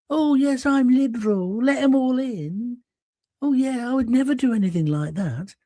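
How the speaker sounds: mimicking pious virtue-signalling; mock sanctimony. Mocks self-styled liberal kind people.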